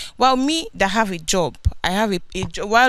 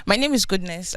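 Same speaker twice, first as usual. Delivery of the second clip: speaking up. Real, not acted. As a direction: raise your voice to be heard. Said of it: "Can you speak up, please?".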